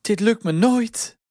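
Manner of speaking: high, slow cry of defeat; despairing wail. A narrator's reading. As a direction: wail that it is hopeless, high and drawn out. Piet geeft het huilend op. (hoog, langgerekt wanhopig gejammer)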